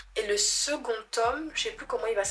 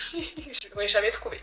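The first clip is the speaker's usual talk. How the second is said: laughing. Real, not acted. Laughs at failing the guess.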